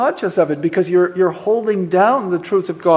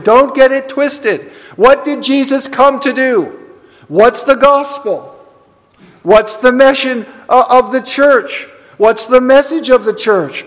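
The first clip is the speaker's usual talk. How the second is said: raised-pitch pulpit questioning; emphatic preaching; 4 semitones higher than usual. Real, not acted. Preacher asking the church what the gospel is, emphatic and insistent. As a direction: press each question home to the congregation.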